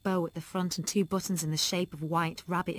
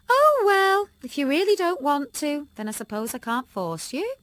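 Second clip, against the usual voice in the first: shakily; 8 semitones higher, 7 dB louder than usual. A narrator's reading. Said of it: "Mum said shakily".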